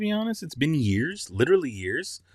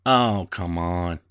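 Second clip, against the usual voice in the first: 1 whispered frustration; 6 semitones lower, much slower than usual. Real, not acted. Frustrated at software.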